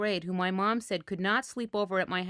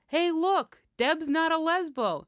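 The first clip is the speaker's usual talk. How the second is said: put-on taunting girl; 7 semitones higher, 3 dB louder, slower than usual. A narrator's reading. Girls teasing on the playground.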